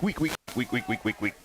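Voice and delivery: imitated announcer echo, sinking away; mock echo. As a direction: repeat it like a fading stadium echo. Imitates echo after Students of Week.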